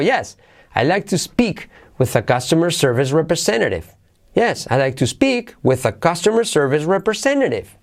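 "Yes" pitched high, then a falling statement; affirmative intonation. Shown as a demonstration. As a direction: open high on "Yes", land "representative" downward. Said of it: "es afirmativo".

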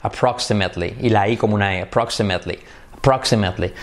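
Approximately, strong R and clear L. Shown as a demonstration. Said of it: "otra vez la R".

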